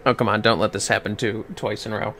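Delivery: normal talking voice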